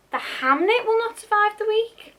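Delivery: high, loud dramatic announcement; mock-dramatic high blurb; hammed-up dramatic read. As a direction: announce it like a tragic trailer.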